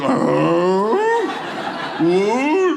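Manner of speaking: rising, puzzled noise; baffled surprise. Acted. Dad looking at a third grader's homework, baffled and rising. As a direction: let it climb into a mock-baffled question. Acts peering at hard homework.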